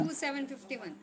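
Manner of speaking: very faint and far from the mic; speaking almost inaudibly low; barely audible. Real, not acted. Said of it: "your voice is very low".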